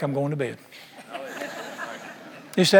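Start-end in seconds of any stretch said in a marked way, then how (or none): 0.0-0.6 much softer, trailing off to bed; quiet prayer. Retold or imitated. Preacher retells telling God he's turning in, softly. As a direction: murmur it like a sleepy prayer.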